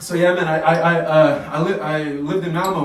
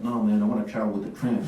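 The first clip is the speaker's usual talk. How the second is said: put-on street kid; 8 semitones lower, 5 dB quieter than usual. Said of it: "two youngsters in Rosengard".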